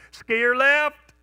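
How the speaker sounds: loud high shout down the slope; calling out. Retold or imitated. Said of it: "you call out".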